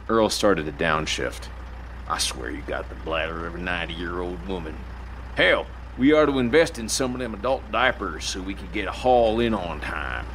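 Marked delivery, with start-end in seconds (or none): 2.1-10.2 lightly voiced teasing old trucker; a hint of a grumpy old driver ribbing his partner; grumbling old trucker. Earl teasing Dale about his bladder, lightly voiced grumble.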